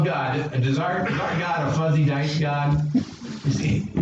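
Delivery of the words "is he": ordinary delivery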